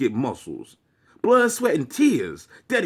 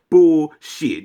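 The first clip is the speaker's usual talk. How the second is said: loud scornful retort; 7 dB louder than usual. Real, not acted.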